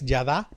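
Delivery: yadá with stress on the last A; accent the final syllable of yadá. Shown as a demonstration. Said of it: "acento en la A".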